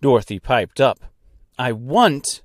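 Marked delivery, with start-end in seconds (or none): 1.6-2.4 "I want" crisply articulated; pointedly precise "I want"; perfect diction. Acted. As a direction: say "I want" with each word cleanly separated. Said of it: "exclaimed with perfect diction".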